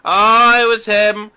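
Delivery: mock a gossiping grandma jumping to conclusions; nosy grandma. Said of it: "like your grandma would investigate".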